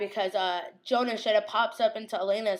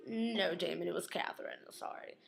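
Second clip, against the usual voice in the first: whisper; 3 semitones lower, 10 dB quieter than usual. Pretend. Voicing twist to Damon.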